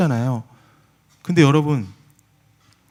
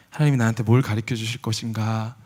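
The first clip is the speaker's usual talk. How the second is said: ordinary talk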